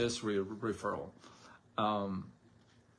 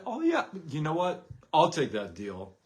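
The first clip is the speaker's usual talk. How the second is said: mock eager; 4 semitones higher, 5 dB louder than usual. Mock investor eagerly accepts deal.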